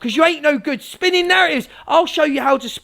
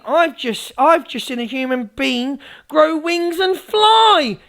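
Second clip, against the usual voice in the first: slow, drawn-out tall tale; mock streamer impression; slower than usual. Mimicking a streamer feeding followers nonsense, mock wonder. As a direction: build slowly to a big finish. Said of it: "I'll do an impression of the Evil Army".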